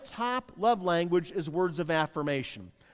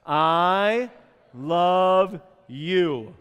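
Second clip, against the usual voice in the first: louder group practice I love you; louder, spaced-out I love you; said together; 7 dB louder, much slower than usual. Shown as a demonstration. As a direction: lead the room in saying it. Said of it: "Let's try it together".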